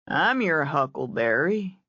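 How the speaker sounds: lightly voiced lazy Southern drawl; an easy Southern drawl, taking his time. Chase quoting Doc Holliday to Jessica in a light lazy Southern drawl. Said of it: "he said in a lazy Southern drawl".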